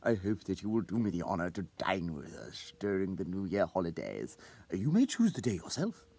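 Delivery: ceremonious. Acted. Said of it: "in a ceremonious tone".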